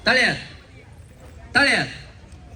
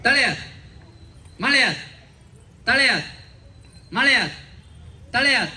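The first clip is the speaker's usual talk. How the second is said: calling out; 3 semitones higher than usual. Real, not acted. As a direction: bark each call to the players. Host calls out game commands.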